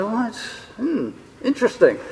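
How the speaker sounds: hushed, pondering reaction; musing interest. Acted. Church members weighing up an inference, musing softly. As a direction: muse softly to yourself, mildly intrigued. Acts out listeners politely pondering.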